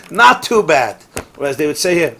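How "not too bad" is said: "Not too bad." drawn out slowly with a laugh; slow amused echo of "Not too bad."; slow, louder knowing repeat. Shown as a demonstration. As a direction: savour the understatement, laughing. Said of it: "And it means he probably made ten million".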